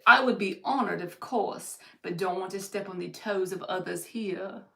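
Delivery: lightly put-on, bad British accent; terrible British accent. Reader quoting a viewer's polite reply, in a terrible British accent. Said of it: "My terrible British accent".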